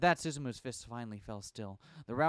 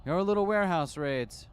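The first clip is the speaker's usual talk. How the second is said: slow, pointed jab, leaning on little; smug taunt; needling; 6 semitones higher, 7 dB louder than usual. Acted. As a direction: tease him slowly. Reporter needles the gang leader.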